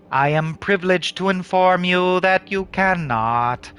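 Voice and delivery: slow, formal good-news announcement; politely delighted official; pleased refusal. Acted. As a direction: deliver a refusal as if it were excellent news. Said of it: "make it sound like a piece of excellent news".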